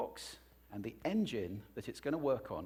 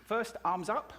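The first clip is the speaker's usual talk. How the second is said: coaching call; 8 semitones higher than usual. Shown as a demonstration. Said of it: "deep breath in".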